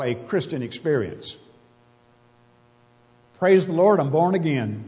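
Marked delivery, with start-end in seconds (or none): 3.4-4.8 put-on southern accent. Preacher mimicking a born-again churchgoer in a light southern accent. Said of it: "I almost naturally break into a southern accent".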